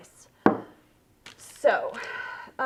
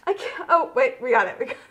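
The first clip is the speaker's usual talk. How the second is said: excited relief; 3 semitones higher, 8 dB louder, faster than usual. Real, not acted. Jar finally opens.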